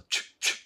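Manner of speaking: "チュッチュッ" as voiceless kissy bursts; blown-kiss ch. Shown as a demonstration. Teacher likening ch to kisses, puckered "チュッチュッ". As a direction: pucker and release "チュッ" like blowing kisses. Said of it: "投げキッスの".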